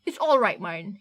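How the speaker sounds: stammering and slow, forcing calm; nervous stammer. Acted. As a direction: push through the fear, stumbling on it. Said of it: "felt his heart leap into his throat".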